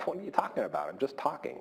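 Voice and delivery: mildly baffled, imitating your own past objection; baffled protest. Retold baffled reply to producer.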